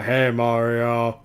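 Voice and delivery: put-on slow, drawn-out French accent; thick French accent. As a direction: greet him in a heavy French accent. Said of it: "with that thick French accent".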